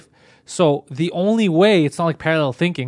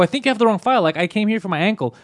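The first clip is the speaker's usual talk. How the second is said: furious, retold; 5 semitones higher than usual. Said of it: "now I'm furious".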